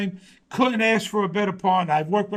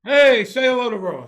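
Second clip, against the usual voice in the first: bright, louder coaxing to the pet; talking to a dog; 3 semitones higher, 5 dB louder than usual. Real, not acted. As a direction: coax the dog to greet him. Showing his dog on camera.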